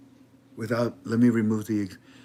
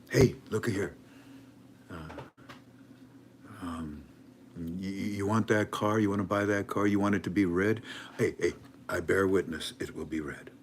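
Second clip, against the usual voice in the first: salesman voice; 4 semitones lower, 5 dB quieter than usual. Retold or imitated. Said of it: "a Middle Easterner ever says to you".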